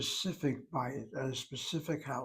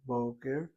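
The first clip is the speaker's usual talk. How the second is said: boker with the stress on BO, said as BO-ker; teacher demonstrating the stress, BO-ker; stress on first syllable. Shown as a demonstration. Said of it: "shows the accent over the first syllable".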